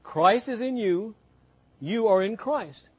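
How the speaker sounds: slow, deliberate teaching voice; careful unhurried voice. Shown as a demonstration. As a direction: spell it out slowly. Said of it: "Let me say this slowly".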